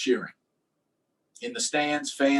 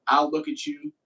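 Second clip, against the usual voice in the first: sudden high pitch; 13 semitones higher than usual. Retold or imitated. Rickey's warning, sudden high pitch.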